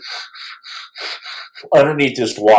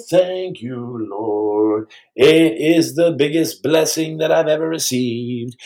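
mock gratitude; much slower than usual. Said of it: "I'm like".

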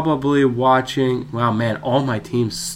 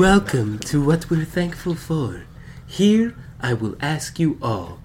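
mock announcer accent. Host welcoming the panel in a put-on announcer accent. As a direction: present it like a radio host. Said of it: "change up the accent".

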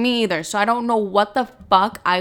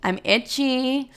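higher, slow, whiny complaining voice; vagina's voice; 4 semitones higher, much slower than usual. Retold or imitated. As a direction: voice her vagina whining, drawn out. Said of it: "she was like".

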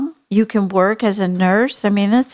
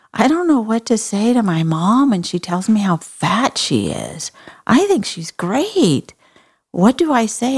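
fifth grader; 4 semitones higher than usual. Retold or imitated. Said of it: "a fifth grader that will raise her hand".

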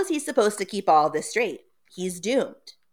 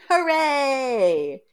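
put-on high cheering kid sister; excited cheer; 7 semitones higher than usual. Sister cheering at brother's costume, excited. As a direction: squeal it like a delighted little girl. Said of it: "Tara's like".

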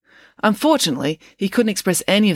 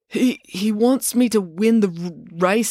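slow, halting stutter; stammering; 5 semitones higher, slower than usual. Acted. Joe explains the cake to April, stammering. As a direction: stumble over "He, he" and "r-, race". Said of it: "stammering got even worse when he was lying".

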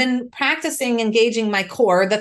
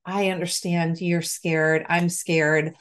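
soothing a frightened mother; calm, de-escalating; 5 semitones lower than usual. Retold or imitated. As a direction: settle her down gently. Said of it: "how do I show up in this moment that doesn't escalate this".

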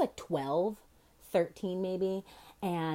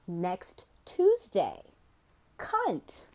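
punchline reveal; much slower than usual. Acted.

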